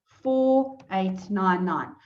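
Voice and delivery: "four eight nine nine" read out slowly while typing; dictating. Shown as a demonstration. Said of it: "so here I'm going to type".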